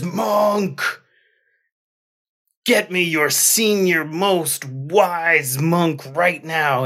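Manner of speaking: gruff warrior. Acted. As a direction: order the monk around like a bloodied warrior. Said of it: "And he says".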